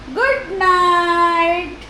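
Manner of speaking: high, sustained singsong good night; slow, lilting good night; drawn-out good night. Real, not acted. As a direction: stretch out a tuneful bedtime farewell. Says good night to pets.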